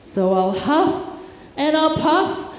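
hammed-up big bad wolf. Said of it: "replied the wolf".

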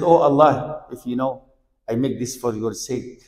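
low, soft voice of a man praying; hushed retold supplication. Trapped man prays to Allah by his good deed, hushed supplication. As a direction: drop down into a humble, quiet plea. Retells a man's prayer.

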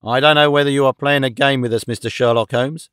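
a touch of irritated anger; understated, rising annoyance; growing angry. Acted. Detective to Holmes, suspecting a game, mildly angry. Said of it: "to grow red and angry".

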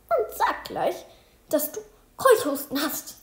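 teacher instructs the sick girl, lightly voiced and firm. A narrator's reading. Teacher tells Luise to report her cough, a hint of stern teacher.

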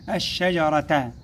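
الشجرة slowly, with a long doubled SH; doubled shīn. Shown as a demonstration. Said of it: "الشين مشددة".

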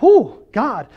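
high, anxious plea to God; acted worry, high and unsettled; mock fearful. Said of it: "start to live in fear".

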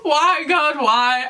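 high, tearful wail, half laughing, half crying; real tears mixed with laughter, voice breaking high; laughing through tears. Real, not acted. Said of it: "I'm literally crying".

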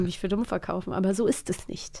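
soft conspiratorial whisper. Acted. Host whispering to listeners about Lars, mock-secretive.

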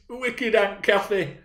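put-on high, slow child's wail; drawn-out, high childish complaint; sobbing small child. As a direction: whine it out like a tearful little boy. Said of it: "sobbed out complaints".

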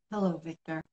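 soft, low whispered greeting. Acted. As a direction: breathe it into his ear, softly. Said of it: "A soft voice whispered in his ear".

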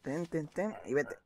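ordinary talk

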